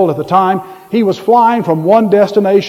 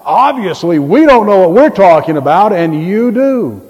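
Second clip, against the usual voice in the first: mock deference, stretching "and you do"; pointed sarcastic concession. Preacher paraphrasing Paul to know-it-alls, sarcastic. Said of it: "He's being very sarcastic".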